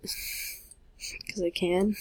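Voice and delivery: slow, giggly whisper; laughing whisper. Real, not acted. Gamer teasing herself with a slow laughing whisper. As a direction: tease it through a laugh.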